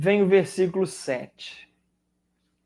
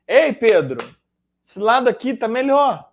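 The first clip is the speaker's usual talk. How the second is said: calling out; 4 semitones higher, 6 dB louder than usual. Acted. Jesus calls to Peter.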